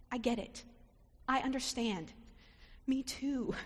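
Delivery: soft, gentle understanding; empathetic. Acted. Elizabeth comforting Mary, gentle empathy. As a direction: quietly comfort her. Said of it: "She shows empathy".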